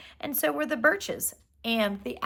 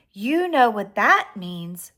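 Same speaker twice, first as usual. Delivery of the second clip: mother rabbit voice; 7 dB louder, slower than usual. Acted. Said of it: "said Missus Cottontail".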